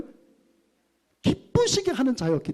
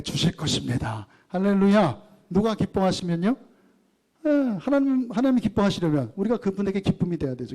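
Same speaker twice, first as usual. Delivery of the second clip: raised, insistent pulpit voice calling out to the congregation; fervent preaching; 2 semitones higher than usual. Acted. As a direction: preach it out with conviction, pushing each phrase.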